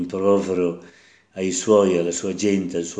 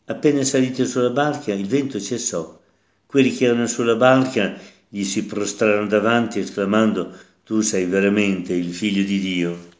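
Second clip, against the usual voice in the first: measured liturgical reading voice; Gospel reading. Acted. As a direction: proclaim the scripture to the congregation. Reads the Gospel passage aloud. (lettura solenne del Vangelo)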